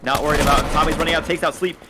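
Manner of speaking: fast, rising play-by-play call; esports caster. Acted. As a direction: call the round live, building up. Live play-by-play of round.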